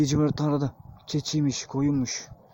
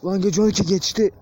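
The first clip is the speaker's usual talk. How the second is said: real fear; 3 semitones higher, 5 dB louder, faster than usual. Real, not acted. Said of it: "Sinir, korku".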